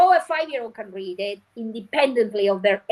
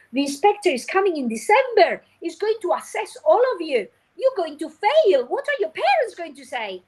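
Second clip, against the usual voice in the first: mock scare warning; 5 semitones higher than usual. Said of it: "Imagine you start this activity".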